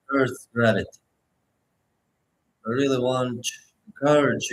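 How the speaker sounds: unhurried meditation guide with long pauses; guided meditation. Acted. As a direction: guide listeners gently, phrase by phrase, leaving space to breathe.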